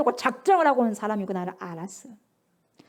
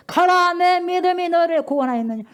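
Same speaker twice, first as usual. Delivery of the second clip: proclaiming loudly; 6 semitones higher, 6 dB louder than usual. Acted. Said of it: "바로".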